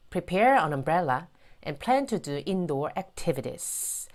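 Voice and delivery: very slow model reading in English; measured, drawn-out teaching read. Shown as a demonstration. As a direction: read it out slowly, word by word for learners. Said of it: "제가 한번 천천히 읽어볼게요".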